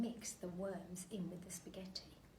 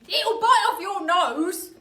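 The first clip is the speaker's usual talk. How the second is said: higher, loud, slow threat; Mr Twit voice; 11 semitones higher, 20 dB louder, slower than usual. Acted. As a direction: scare her slowly. Mister Twit scaring wife.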